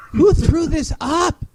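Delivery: slow, high, disgusted question. Real, not acted. Host scoffing at the article's writer, slow disdain. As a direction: demand to know who posted this.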